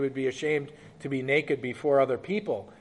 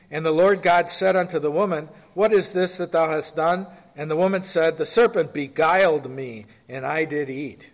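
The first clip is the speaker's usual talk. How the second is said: measured, slightly raised Bible-reading voice; scripture reading. Acted. Preacher reading Genesis aloud to the class, lightly raised.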